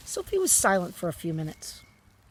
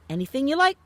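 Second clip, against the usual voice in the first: higher and louder, boastful; proud; 8 semitones higher, 9 dB louder, faster than usual. A narrator's reading. The BFG boasting to Sophie about his dream-making, proud. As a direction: boast it grandly. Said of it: "said the B F G proudly".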